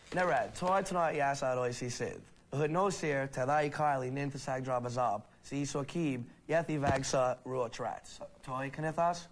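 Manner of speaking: speaking words reversed; backwards speech. Shown as a demonstration. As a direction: talk backwards, fluent and steady. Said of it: "Talk backwards for us".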